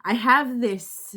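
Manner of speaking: a nervous laugh, fighting back tears; emotional laugh. Real, not acted. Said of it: "I didn't think I was gonna get emotional".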